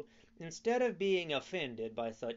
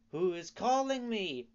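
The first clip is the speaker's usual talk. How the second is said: frightened; 6 semitones higher, 6 dB louder than usual. A narrator's reading. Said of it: "said Pinocchio, frightened".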